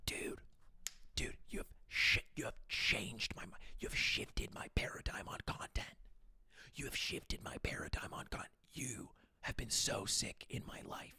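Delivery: whispered yell, hushed and breathy. Ludwig quotes a man complimenting him in a library, retelling whisper yelling. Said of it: "the whisper yelling of those compliments".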